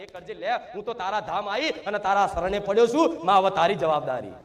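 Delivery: very soft, murmured prayer of surrender; hushed surrender. Retold or imitated. Devotee quietly surrendering to the mother goddess, hushed. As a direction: sink the voice to a near murmur as you hand it all over.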